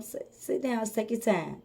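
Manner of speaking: soft, low and soothing; calming. Retold or imitated. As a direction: settle someone down gently. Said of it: "I just slow 'em down and tell 'em".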